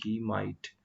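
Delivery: says he might slowly and evenly; a teacher giving the answer at a slow pace; slow model answer. Shown as a demonstration. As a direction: lay out he might calmly for the class. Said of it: "तो यहाँ पे हम करेंगे वो शायद ही".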